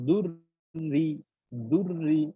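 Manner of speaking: slow দুররি with thin, light র; দুররি recited slowly, thin র. Shown as a demonstration. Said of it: "জের হলে পাতলা হবে".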